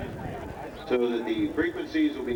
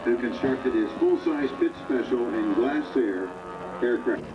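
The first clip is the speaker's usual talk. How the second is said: upbeat PA announcer calling planes; airshow commentator. Acted. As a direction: call the flyby over the loudspeaker. Live air show commentary.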